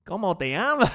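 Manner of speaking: hammed-up mock Spanish accent; ridiculous Spanish accent. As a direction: tease with a silly fake Spanish accent. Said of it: "a ridiculous accent".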